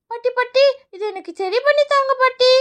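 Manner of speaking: high, wheedling little voice; pleading child. Acted. Child asks grandmother to repair the toy, pleading. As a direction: beg like a small child.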